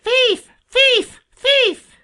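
very high-pitched screeching jay; piercing, hopping-mad character squawk; angry scream. A narrator's reading. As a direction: screech it like a furious bird. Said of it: "screamed Sammy, hopping up and down, he was so angry".

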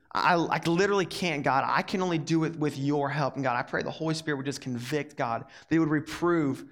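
earnest, hushed prayer to God. Real, not acted. Youth pastor praying before the lesson, earnest prayer.

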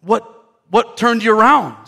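start, break off, then ask in amazement; mock astonishment; baffled owner. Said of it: "And the guy goes".

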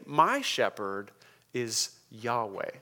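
slow, deliberate landing on "Yahweh"; emphatic reversed order. Shown as a demonstration. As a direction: let "Yahweh" drop slowly and gravely into place. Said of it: "I want to reverse the order".

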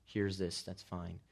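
mock-indifferent, trailing off softly; apathetic. What Jesus is not saying, apathetic. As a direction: shrug it off, dropping away at the end. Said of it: "He's not apathetic".

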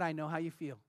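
soft, low, consoling words; gentle sympathy. Retold or imitated. Telling a grieving woman he understands, soft and low. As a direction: softly offer comfort, hushed. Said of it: "I said these words".

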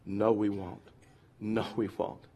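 low, soft monotone repeat; broken record. Retold or imitated. Preacher mimicking grumbling Israelites, soft broken-record drone. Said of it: "they sound like a broken record".

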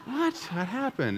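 high laughing What, then a puzzled question; mock-baffled what with a laugh; laughing disbelief. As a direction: play being caught off guard. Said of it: "I was like".

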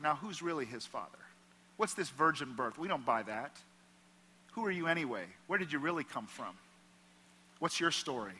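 quiet sneering townsfolk; gossiping whisper. Retold or imitated. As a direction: lean in and murmur the rumors. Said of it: "everybody whispered".

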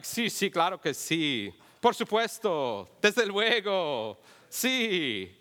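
slow, drawn-out Mexican Spanish accent, a bit hammed up; mock fluent Spanish. Pretending fluency in front of his wife in Mexican Spanish accent. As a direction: fake fluency in Spanish with emphatic agreement. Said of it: "to try to sound like I can speak Spanish".

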